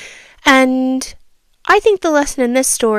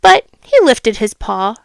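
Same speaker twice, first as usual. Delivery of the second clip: storybook reading voice; a child reading a fable aloud; story narration. A narrator's reading. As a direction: read it like a bedtime story. Reads second fable.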